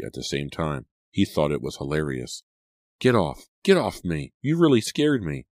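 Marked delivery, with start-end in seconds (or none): 3.0-5.4 pitched-up, mildly indignant outburst; acted protest climbing higher at the end. A narrator's reading. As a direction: protest high at the child on top of you. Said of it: "her protests made him laugh".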